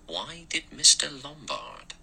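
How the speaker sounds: slow, high-pitched, insinuating query; pointed question. A narrator's reading. Blore turns the doctor's question back, pointedly.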